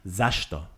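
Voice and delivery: Zashto with a lighter z sound. Shown as a demonstration. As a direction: say Zashto without overdoing the zh. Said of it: "maybe I put the zh too much".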